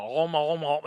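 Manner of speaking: playful "om, om" gobbling noises; mimicked munching. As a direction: imitate stuffing cookies into the mouth. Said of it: "and just mimicking".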